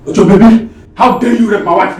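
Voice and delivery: loud, high-pitched angry accusation; outraged husband shouting; furious outrage. Acted. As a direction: confront your wife's attacker in a rage. Enraged husband confronting attacker.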